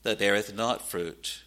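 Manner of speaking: solemn scripture quotation, sinking at the end. Acted. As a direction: quote it as a grave warning. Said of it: "he says this very solemnly".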